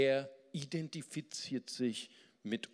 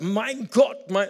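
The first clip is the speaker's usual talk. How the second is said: much higher and louder outcry; loud, despairing call; anguished cry; 8 semitones higher, 11 dB louder, slower than usual. Shown as a demonstration. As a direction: cry it out to God. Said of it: "es kommt auf die Betonung an".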